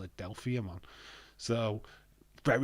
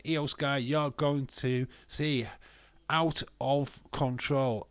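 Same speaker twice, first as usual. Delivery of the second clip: drawn-out quote; 4 semitones higher, slower than usual. Retold or imitated. Reads out Bayley's quoted words.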